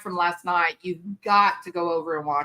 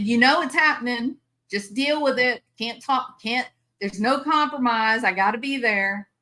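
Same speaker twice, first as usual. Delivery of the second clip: firm insistence; 4 semitones higher than usual. Retold or imitated. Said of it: "I told my husband".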